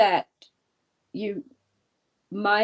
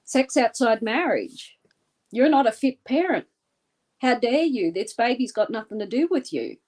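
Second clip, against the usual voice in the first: harsh nurse; 3 dB louder than usual. Acted. S0 voices the nurse's cruel reply.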